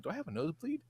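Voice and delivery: quiet, unbothered question; calm question. Retold or imitated. Retelling his boyfriend's calm question, quiet and unbothered. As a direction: ask it calmly, almost offhand. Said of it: "And he's very calm".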